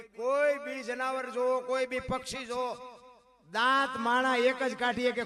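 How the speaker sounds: loud, high challenge to the crowd. Acted. Preacher challenging listeners about animals, loud. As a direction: dare them to name any animal.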